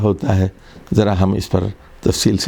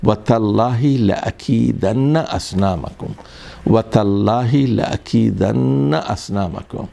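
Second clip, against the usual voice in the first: Quran recitation. Shown as a demonstration. Teacher reciting a Quran verse from Surah Anbiya to students, in measured recitation. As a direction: recite the verse with care, stretching the long vowels. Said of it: "سورہ انبیاء میں".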